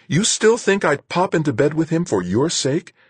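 high, loud, outraged woman's voice; indignant disbelief. Acted. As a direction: throw it back, scandalised. Stunned indignant reply in quarrel.

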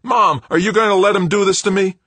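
very high, loud, whining; whiny son. Acted. Son to mother, high whining plea. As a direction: plead with mom like a hurt boy.

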